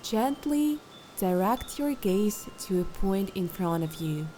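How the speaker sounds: calm, unhurried instructions with long pauses; guided meditation. Acted. Meditation guide settling listeners into posture and breath, calm guided meditation. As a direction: lead them gently through settling and breathing.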